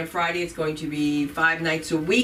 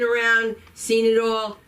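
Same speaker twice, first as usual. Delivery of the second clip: hype intro; 4 semitones higher, 3 dB louder than usual. Real, not acted. Host hyping up next comic.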